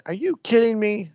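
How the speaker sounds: exasperated driver griping at the radio; mock yell at the radio. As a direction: throw up your hands at dispatch, half-shouting. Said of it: "I yell and say".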